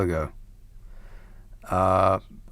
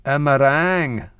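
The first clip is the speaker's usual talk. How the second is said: "A meringue" said with a Scottish accent. Shown as a demonstration. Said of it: "In a Scottish accent sounds".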